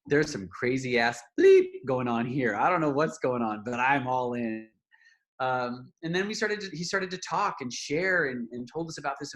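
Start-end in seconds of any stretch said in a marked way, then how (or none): 0.1-4.7 louder, excited, slowing at all in; thrilled. Retold or imitated. Reacting to the crying friend, loud thrilled commitment. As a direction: throw yourself in with wild glee. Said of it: "And I was just like".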